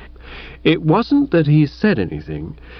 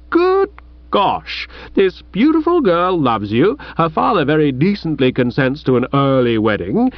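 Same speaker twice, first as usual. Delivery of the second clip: indignant rebuke. Acted. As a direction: dress him down from a moral height. Chuffy's indignant tirade continues.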